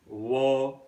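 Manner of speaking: "war" with the final R dropped, RP style; silent R. Shown as a demonstration. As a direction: say "war" as a long open vowel, no R. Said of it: "it is not pronounced in R P accent".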